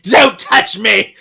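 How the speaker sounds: high, slow, shouted recoil; panicked yell. Retold or imitated. Confused man yells at his rescuers, high, slow shout.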